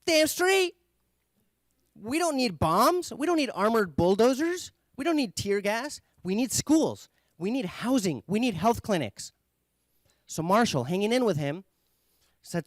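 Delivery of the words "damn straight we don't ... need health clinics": high, loud, indignant rant; imitating an angry refugee, higher and louder; retold angry rant. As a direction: hammer each demand like an angry protester. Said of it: "The guy's like".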